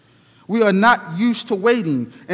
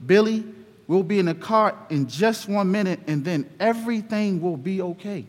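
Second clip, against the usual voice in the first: calming; 3 dB quieter than usual. Acted. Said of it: "Dad was very calming".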